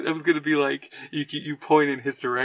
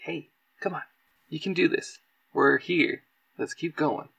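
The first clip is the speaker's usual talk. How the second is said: close encouragement; 3 semitones higher than usual. Acted. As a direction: coax him along gently. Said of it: "he, like, pulls him close".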